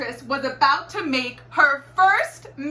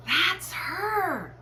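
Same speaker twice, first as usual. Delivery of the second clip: lightly voiced woman; 8 semitones higher than usual. A narrator's reading. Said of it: "said a woman".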